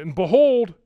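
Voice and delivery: BEHOLD punched loud and high; emphatic proclamation. Real, not acted. Preacher showing a parallel in verse nine, emphatic proclamation. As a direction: ring out "behold" to rouse the room.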